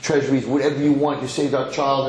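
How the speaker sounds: mildly overwhelmed gratitude, building in pitch and volume; freaking out. Acted. King and queen thank the healer who saved their child, freaking out. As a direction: gush with rising excitement as you offer everything. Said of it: "They're, like, freaking out".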